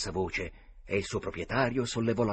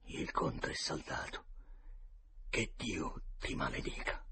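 muttered curse; 9 dB quieter than usual. A narrator's reading. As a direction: mutter it coldly to the dead man. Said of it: "Il meticcio borbottò". (Joe l'Indiano borbotta sul cadavere, a voce bassa)

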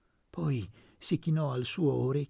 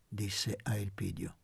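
mock-cross, a touch louder; hammed-up irritation; 5 dB louder than usual. Aunt demanding money from Elpidio, mock-annoyed. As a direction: play at being annoyed. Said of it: "con quella stizza caricata".

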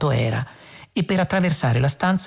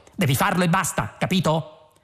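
higher, exasperated order; restrained yell, pitched up without volume; shouting; 4 semitones higher than usual. A narrator's reading. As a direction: lay down the order impatiently. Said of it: "gridò".

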